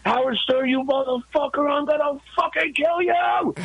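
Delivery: high furious yell of a threat; retold scream. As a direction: scream it like a crazed attacker. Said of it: "he just decided to scream".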